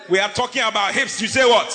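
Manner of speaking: loud, laughing outburst; excited exclamation. Real, not acted. Preacher exclaiming to the congregation, loud laughing outburst. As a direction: call it out to the crowd.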